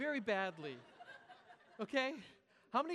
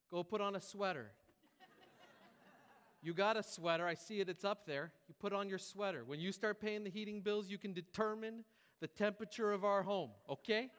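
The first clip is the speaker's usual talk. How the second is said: lightly voiced scolding mom; 5 dB louder than usual. Mom scolds her kid over heating bills, mock scolding. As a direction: caricature mom with a hint of accent, getting louder. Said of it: "I don't know what happened to this voice".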